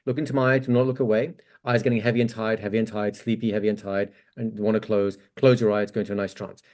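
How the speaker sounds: confident hypnotist's induction voice; calm hypnotic induction. Shown as a demonstration. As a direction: settle them down into sleep with a low voice. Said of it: "Normal language you had already".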